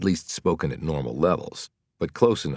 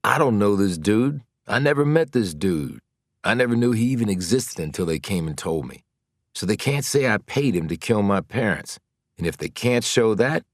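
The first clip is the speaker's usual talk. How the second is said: mild agitated protest; 5 semitones higher, 3 dB louder than usual. Acted. Mars pleading his innocence.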